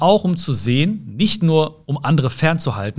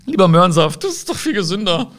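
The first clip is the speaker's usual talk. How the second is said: higher, lightly put-on voice of reason; mock sensible inner voice; 5 semitones higher than usual. To herself, resisting Oreos: a lightly voiced prim inner scold. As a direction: nudge yourself sweetly toward the healthy choice.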